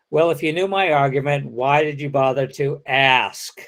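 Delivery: brisk question, then draw out "ask"; ASK stretched out. Shown as a demonstration. Lecturer reenacting a turn for students, "ask" stretched. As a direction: say "ask" long and stretched at the end. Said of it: "let me reenact that".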